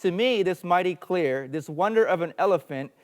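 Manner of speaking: loud, high, declaimed wonder; crying out. Acted. Second blind man exclaiming over the tusk, crying out. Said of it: "cried, 'Ho".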